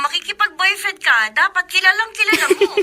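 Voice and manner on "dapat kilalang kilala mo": teasing laugh. Acted. Teasing friend about boyfriend.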